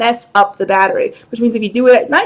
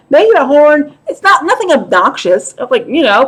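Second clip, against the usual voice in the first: usual speaking voice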